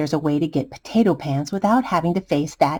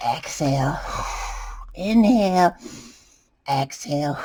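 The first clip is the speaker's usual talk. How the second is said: deep breaths; 4 dB quieter than usual. Acted. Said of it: "deep breaths".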